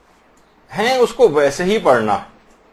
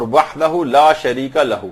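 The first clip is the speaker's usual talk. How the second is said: 1 slow recitation; 3 semitones lower, slower than usual. Shown as a demonstration. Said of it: "یہ بھی صحیح".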